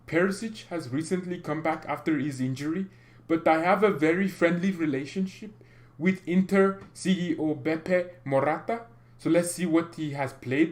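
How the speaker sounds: half-hearted French accent impression; mock French accent. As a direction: read the quote in a hammy French accent that slides toward an Indian-German sound. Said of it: "I'm gonna read it in a French accent again".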